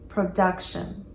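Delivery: Production with DUC stressed, slow and soft; stress on second syllable. Shown as a demonstration. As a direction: lean on the DUC in Production, slowly. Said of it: "Notice the emphasis on that second syllable".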